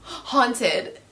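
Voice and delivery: hammed-up spooky characters; mock the overdone foreshadowing; lightly hammed-up gasp and hush; mock dramatic foreshadowing. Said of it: "they kept saying".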